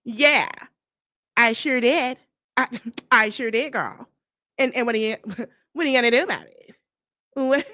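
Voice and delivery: lightly exaggerated mimicry of a rival; mock her cocky comebacks through giggles; mocking imitation. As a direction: imitate her defiant talk, breaking into laughs. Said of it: "I promise that's how she talk".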